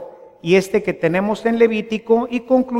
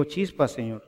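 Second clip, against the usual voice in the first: hushed, lower plea to God; weary prayer; 5 semitones lower, 7 dB quieter, faster than usual. Retold or imitated. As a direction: lower and softer, a tired aside to God. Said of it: "Y digo".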